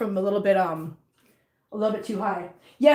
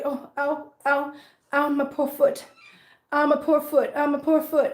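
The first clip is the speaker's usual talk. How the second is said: mock kitten whimper; 3 semitones higher than usual. Voicing the limping kitten's pain.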